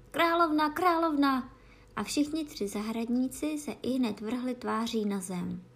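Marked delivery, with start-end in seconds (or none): 0.1-0.7 high, loud alarmed cry. A narrator's reading. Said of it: "vykřikl". 0.7-1.5 loud, high repeated alarm cry; cry out again. A narrator's reading. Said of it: "vykřikl".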